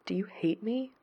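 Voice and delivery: a hushed, breathless whisper, barely voiced; fearful whisper. A narrator's reading. Gerard fearfully whispering to himself, in a hush. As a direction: ask it under your breath, afraid of the answer.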